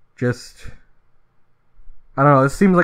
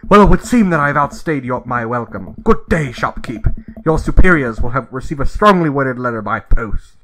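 a hint of a prim British gentleman complaining; snooty British; 4 dB louder than usual. Customer complaining to the cashier, lightly snooty British accent. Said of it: "like, a snooty British person".

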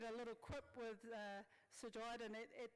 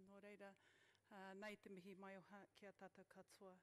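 measured ceremonial Māori greeting; formal mihi. Acted. Son greeting the dignitaries with a formal mihi.

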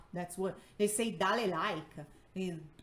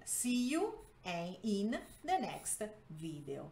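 slow, word-by-word translation; slow read-aloud; slower than usual. Shown as a demonstration. Teacher translating the video's sign-off for learners, slow read-aloud. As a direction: spell out each chunk for learners, pausing between.

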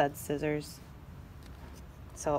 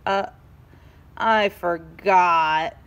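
moaning; 4 semitones lower, 3 dB louder, much slower than usual. Acted. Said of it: "moaned Eraser".

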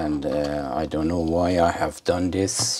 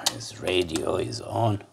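sudden hushed whisper; 8 dB quieter than usual. Real, not acted. Vlogger caught by the radio playing, whispering. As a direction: drop to a whisper over the radio. Radio plays during his demo.

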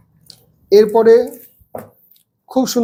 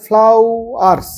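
ফ্লাওয়ার্স said slowly as one unbroken word; teacher drawing out ফ্লাওয়ার্স in one piece; slow whole word; 2 semitones higher, much slower than usual. Shown as a demonstration. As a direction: stretch out ফ্লাওয়ার্স without splitting syllables. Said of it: "syllable ভাগ করে না".

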